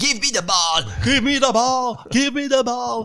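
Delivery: very high, rising, unhinged crazy-man shouting. Describing a man yelling at a little girl in a mall, imitating a crackpot shouting. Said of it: "un crackpot crie".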